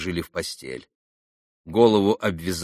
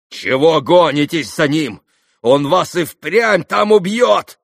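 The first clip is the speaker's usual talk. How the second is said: loud, slow angry shout, higher; 7 semitones higher, 8 dB louder, slower than usual. A narrator's reading. Ivan shouting angrily at his father, loud and slow. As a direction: rebuke him hard and slowly. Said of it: "гневно крикнул на отца".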